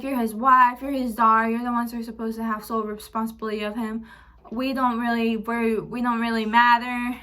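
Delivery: lightly voiced accusing relative; imitating godmother. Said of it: "She's like".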